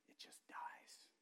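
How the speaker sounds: slow, solemn whisper; preacher's hushed emphasis. Real, not acted. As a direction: drop to a slow whisper for effect. Hushed sermon climax about dying.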